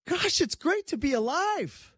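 high, slow, beaming exclamation; joyful exclaim. Pretend. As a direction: sing out with delight. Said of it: "you just have to say".

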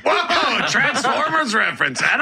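high laughing whoa; real surprised laugh at the reference; laughing surprise. Real, not acted.

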